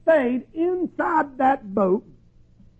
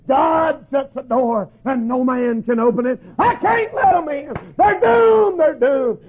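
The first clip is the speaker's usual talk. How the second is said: anguished Noah. Acted. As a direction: plead it out, breaking with despair. Noah refusing his wife, grieving.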